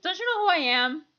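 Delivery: self-important mock boast, rising high then loud; lightly imitated grand announcement; Aaron. Quoting a Game Grumps animation, mock self-important boast. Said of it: "I think it was Aaron who was".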